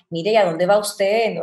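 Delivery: lightly imitated Colombian or Venezuelan courtesy; gentle, courteous Colombian-style question; amable, colombiano o venezolano. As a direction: ask politely, with a hint of Colombian or Venezuelan accent. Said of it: "como que son muy amables".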